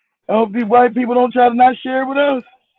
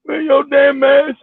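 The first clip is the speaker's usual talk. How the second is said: mock scolding; 4 semitones higher, slower than usual. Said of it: "mock scolding about mask".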